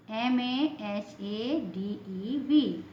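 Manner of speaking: letters spelled out slowly one by one; slow spelling. Shown as a demonstration. Teacher spelling a word slowly for students. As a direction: dictate each letter slowly for the class. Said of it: "teacher spells out letters".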